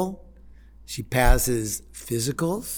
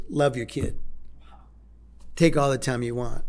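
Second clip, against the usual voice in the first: gentle guard; 3 semitones lower, faster than usual. Retold or imitated. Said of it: "he looks down and goes".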